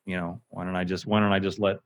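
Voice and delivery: low, quiet flat robotic read; flat monotone. Shown as a demonstration. Mocking a flat narrator for a co-host. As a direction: drone it like Alexa reading. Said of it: "if you don't emphasize anything".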